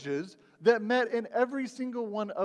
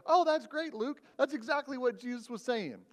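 higher, hammed-up cheerful agreement; mock enthusiasm; 5 semitones higher than usual. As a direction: gush like you just got the answer handed over. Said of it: "before I go".

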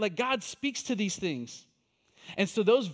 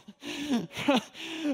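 high laugh; 7 semitones higher than usual. Retold or imitated. Laughing at own panic.

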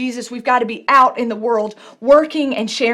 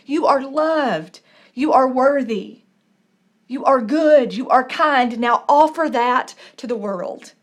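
tender blessing. Acted. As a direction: speak like Jesus gently reassuring her. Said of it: "that's what Jesus did".

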